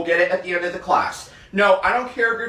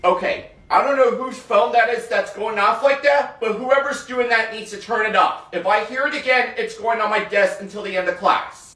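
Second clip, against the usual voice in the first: raised, firm classroom scold; stern teacher scolding; 5 semitones higher than usual. Acted. Teacher scolding the class over a ringing phone, raised and stern.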